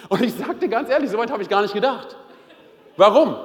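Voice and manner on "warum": laughing question. Real, not acted. Laughing at his own story.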